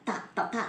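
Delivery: teacher isolating the sound ത; sound drill. Shown as a demonstration. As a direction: tap out ത three times for the class. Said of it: "ടീ അല്ല".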